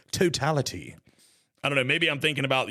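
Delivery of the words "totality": mock English accent; amateur attempt at an English accent. Shown as a demonstration. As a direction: say it like someone from England. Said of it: "like, people in England?".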